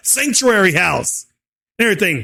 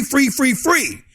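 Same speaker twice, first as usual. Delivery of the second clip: "free" repeated in a raised, mocking pitch; mocking repetition; 4 semitones higher, slower than usual. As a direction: hammer each "free" as its own beat. Mocking expected handouts, repeated word.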